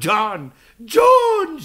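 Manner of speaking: repeated call, rising to a high shout. Acted. Scott calls his lost friend over wind and wolves, shouting. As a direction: call harder the second time. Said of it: "și iar Scott".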